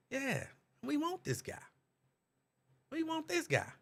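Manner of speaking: high, cheering crowd voice; excited crowd. Pretend. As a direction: cheer like a crowd picking its man.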